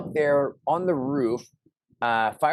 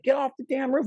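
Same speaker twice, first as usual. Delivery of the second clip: retold order; 14 semitones higher than usual. Neighbor ordering him down.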